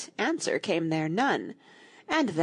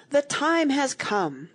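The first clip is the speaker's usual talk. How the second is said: slow grand walrus; 7 semitones higher, 3 dB louder, slower than usual. Acted. Walrus begins grand speech.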